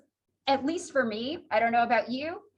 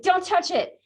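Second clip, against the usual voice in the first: mildly raised, playful warning; mock warning; 3 semitones higher, 4 dB louder than usual. Teacher imitating a student's warning finger, mock warning. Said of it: "you just held a finger up".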